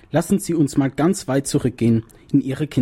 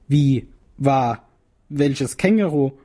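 tense; slower than usual. A narrator's reading. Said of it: "fragt der Psychiater angespannt".

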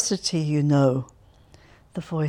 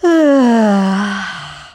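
long loud weary sigh; noisy sigh; 2 semitones higher, 8 dB louder than usual. A narrator's reading. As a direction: heave a big noisy sigh. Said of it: "Alevarov sighed noisily".

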